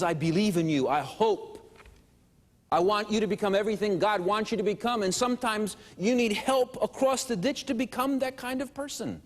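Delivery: earnest, rising encouragement; impassioned encouragement. Acted. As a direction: speak as a heartfelt supporter urging someone on. Acted encouragement from loving helper.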